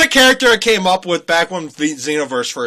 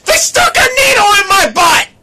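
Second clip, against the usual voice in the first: mock crying; 7 dB louder than usual. Mock wailing to friend upstairs.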